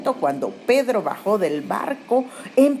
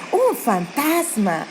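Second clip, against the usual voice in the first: softer repeated cry; 4 semitones higher, slower than usual. Retold or imitated. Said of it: "empezaron a gritar y decían".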